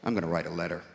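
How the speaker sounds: a furious Brit muttering his threat; Brit snapping. Retold or imitated. Comedian mimics a snapping Brit, low and grim. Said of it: "when a Brit truly snaps".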